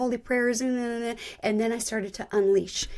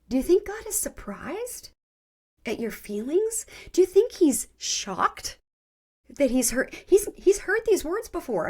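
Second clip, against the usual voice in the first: incredulous challenge; 7 semitones higher than usual. Retold or imitated. Counselor challenges her with incredulous questions.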